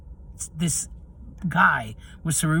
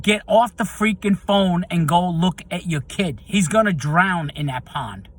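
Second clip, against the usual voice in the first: louder and slower, each word hammered out; yelling at her; 3 semitones higher, 5 dB louder than usual. Retold or imitated. Jogger yelling at the distracted mom by the pond, slow angry shout. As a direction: shout a furious scolding across the park. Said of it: "So I yelled at her".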